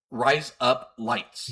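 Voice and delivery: slow, drawn-out mock Australian; slow Australian-accent demo. Shown as a demonstration. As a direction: fake an Australian accent, spacing out each word. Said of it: "in an Australian accent".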